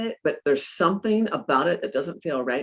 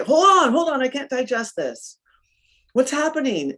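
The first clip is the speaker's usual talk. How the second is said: retold panic; 7 semitones higher, 4 dB louder than usual. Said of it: "I instantly went into panic".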